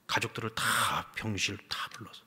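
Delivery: ordinary talk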